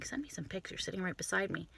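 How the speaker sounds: hushed, incredulous thought to oneself; inner thought. Retold or imitated. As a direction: say it softly, as if only thinking it. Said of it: "I'm thinking".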